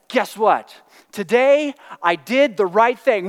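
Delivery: eager, slow announcement of good news; excited teenage son. Retold or imitated. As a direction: tell dad proudly, bursting with it. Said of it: "he's bouncing off the walls".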